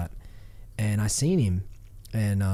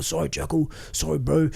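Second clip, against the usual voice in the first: sheepish apology; 5 semitones higher than usual. Retold or imitated. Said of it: "and they were".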